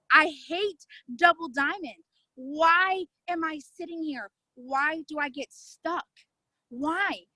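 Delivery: slow, emphatic self-questioning; retold frustration. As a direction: drag out each exasperated question.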